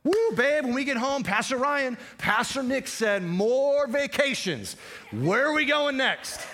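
high, loud, gushing mock excitement; excited spouse. Congregant teasing spouse about vacations, gleeful hammed-up excitement. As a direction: gush like you just got the vacation green light. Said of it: "Some of you are going".

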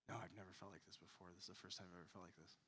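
soft, fast, unsettled rush; anxious wife. Retold or imitated. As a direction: blurt it out shaken and hushed. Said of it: "I'm like".

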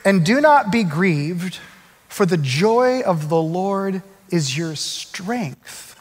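slow and measured; slow solemn quote. Acted. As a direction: read it slowly as a promise. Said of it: "he says this".

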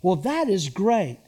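"Well, that is great." said straight and sincere; mean it, plain and pleased. Shown as a demonstration. Pastor showing the church a sincere tone. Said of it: "Here's an example".

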